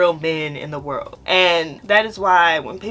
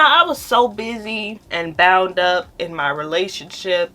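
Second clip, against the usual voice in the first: usual speaking voice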